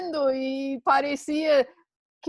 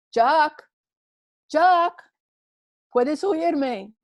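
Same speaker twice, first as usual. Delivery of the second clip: calling out; 3 semitones higher, 5 dB louder, much slower than usual. Acted. Voice calling from above.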